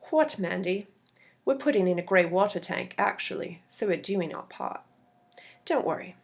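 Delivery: a bad, light Australian accent as a defensive neighbor; lightly put-on Australian accent, a bit defensive; terrible Australian accent. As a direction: caught out, brushing it off in a weak Australian accent. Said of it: "That was my terrible Australian accent".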